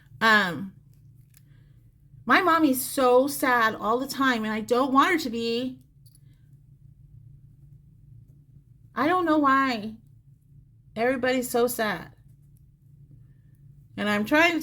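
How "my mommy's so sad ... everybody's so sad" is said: put-on childlike little-boy voice. Relaying what a spirit says to the sitter, talking like a little boy. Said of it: "he's telling me like he's a little boy, and it's probably gonna come out that way".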